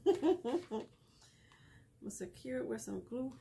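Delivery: slow, breathy whispered repeat after a laugh; playful whisper. Real, not acted. Crafter whispering to her viewers while gluing, playful and slow. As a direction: lean in and whisper it like a little secret.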